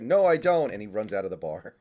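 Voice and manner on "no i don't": high, loud panicked yelp; hammed-up startled cry, pitched way up; mock freak-out. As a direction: imitate a guy freaking out. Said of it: "the guy freaks out".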